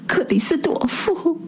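high, hushed desperate call of a name; a frightened husband whispering for help; lightly voiced anxious husband; anxious plea. A narrator's reading. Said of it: "叫了声".

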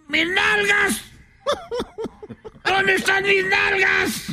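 panicked squeaky frog shouting; frog panicking. Acted. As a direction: cry out like a frog missing its rear. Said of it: "y dijo".

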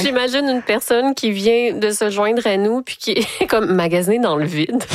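laughing. Real, not acted. Host picturing a newcomer hearing about empty shopping, laughing. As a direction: talk through amused laughter. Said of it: "Je ris parce que".

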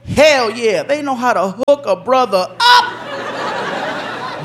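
delighted. Retold or imitated. Guest delighted.

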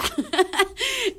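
high laughter; real laugh. Real, not acted. Laughing at daughter.

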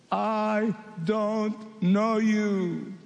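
very slow, cold refusal; the bridegroom's slow, final rejection; stern bridegroom. Acted. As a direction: draw each word out like a closing door. Bridegroom rejects the foolish ones.

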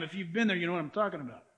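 ordinary talk, nothing marked

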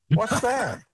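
high, baffled question; mock naive bafflement; puzzled girl. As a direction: ask like you've never heard the word. Girl confused by fried bologna.

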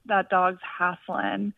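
put-on slow, light Southern accent on "that dog's hassling". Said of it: "in her Southern accent".

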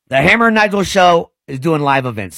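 normal talking voice

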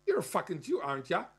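imitating a bogan's taunt; Australian bogan accent. Explaining why the bogan shouted, Australian accent. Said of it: "this kind of bogan accent".

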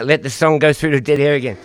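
panting after running up; breathless after the stairs; out of breath. Real, not acted. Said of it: "I'm out of breath".

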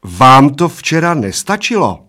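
stern warning. A narrator's reading. Barmaid warning two old drinkers, sternly. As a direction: warn them loudly, drawing it out. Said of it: "varovala oba slovy".

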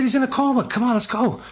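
begging him to hurry; urgent pleading. Retold or imitated. Urging the priest to come.

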